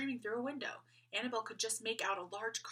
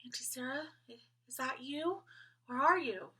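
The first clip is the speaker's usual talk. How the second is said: raised voice; 6 semitones higher than usual. A narrator's reading. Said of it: "She raised her voice slightly".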